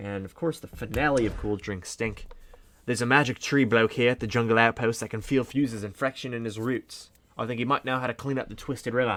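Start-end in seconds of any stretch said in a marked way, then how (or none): 2.9-9.2 weak put-on Australian accent. Voicing a character for stream viewers in a put-on Australian accent. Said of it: "me doing a Australian accent".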